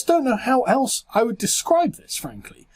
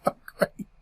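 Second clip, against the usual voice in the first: sarcastic; 5 dB quieter than usual. Real, not acted. Sarcastic aside.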